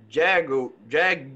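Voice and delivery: "Jaguar" carefully broken into jag-oo-ar; guest's pronunciation. Retold or imitated. Host trying out guest's word, haltingly copied pronunciation. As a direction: imitate her "Jaguar" haltingly, with an oo in the middle. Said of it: "you pronounced it".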